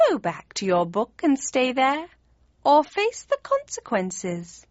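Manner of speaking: high cat voice, slowing on the threat; threatening cat. A narrator's reading. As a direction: warn him high, stretching out the last phrase. Cat threatens Kane, voiced by narrator.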